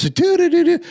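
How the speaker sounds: high, loud "do-do-do" imitation; breezy nonsense syllables, sung out mockingly; mock carefree humming. Comic mimics a crowd ignoring offensive words, mock carefree. Mimics everyone carrying on as normal.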